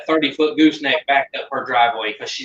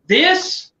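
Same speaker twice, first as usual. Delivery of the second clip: laughing at herself; 4 semitones higher, slower than usual. Real, not acted. Laughs at her own explanation.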